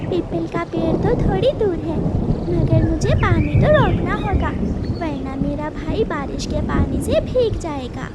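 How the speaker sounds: big sister taking charge; caring big sister. Acted. Sister worries aloud.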